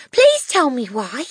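put-on slow, high, loud child's plea; pleading cry. A narrator's reading. Matilda begs her teacher to explain, pleading loudly. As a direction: beg for the answer. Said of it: "Matilda cried".

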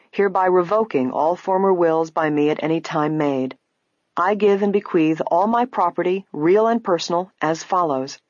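formal will reading; measured reading of a legal document; clear reading voice. A narrator's reading. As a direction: read it out clearly and deliberately. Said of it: "read in a clear voice".

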